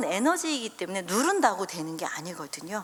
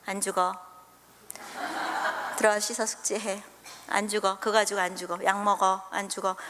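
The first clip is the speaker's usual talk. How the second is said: 차가운 분노; 3 semitones lower, 4 dB quieter than usual. Retold or imitated. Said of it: "차가운 분노".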